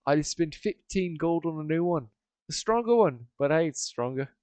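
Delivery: a hint of an animated fisherman character; lightly voiced Stevie. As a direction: play Stevie with a light, lively lift.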